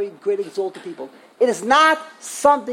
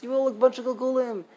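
lightly imitating a preacher, barely changed; a touch of mockery; mild mock quote; 4 semitones higher, faster than usual. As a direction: toss off the preacher's line with a hint of scorn. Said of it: "very easy for them to say".

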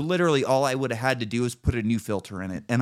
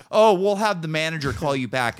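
mock customer service; 6 semitones higher, 5 dB louder than usual. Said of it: "they don't fucking care".

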